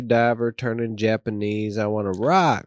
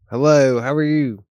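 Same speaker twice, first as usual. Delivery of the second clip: put-on Japanese accent; 2 semitones higher, 6 dB louder than usual. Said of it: "do our best Japanese accent".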